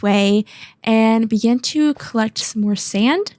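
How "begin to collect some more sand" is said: "sand" lifted as if asking; questioning tune. Real, not acted. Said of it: "said that like it was a question".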